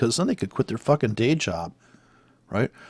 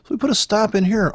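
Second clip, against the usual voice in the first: mocking trader voice; 6 semitones higher, 4 dB louder than usual. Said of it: "'Cause they're like".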